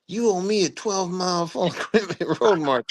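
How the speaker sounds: high, hammed-up punishment order; mock stern order. Commander imagining punishing the lieutenant, mock-indignant. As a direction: hand down a pretend sentence, amused.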